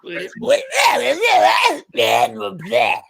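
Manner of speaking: dismissive bleh, bleh, bleh; mock singer grunts. A singer scoffing at her outfits, mock dismissive blehs. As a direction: wave off the outfits with scornful blehs. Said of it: "the singer was really like".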